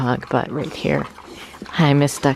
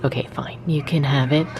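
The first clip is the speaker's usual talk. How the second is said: whispering. Retold or imitated. Grudgingly yielding the plant.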